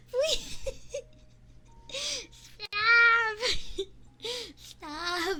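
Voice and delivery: high, loud stop through laughter; can't stop laughing; squealed please, gasping laugh; laughing fit. Real, not acted.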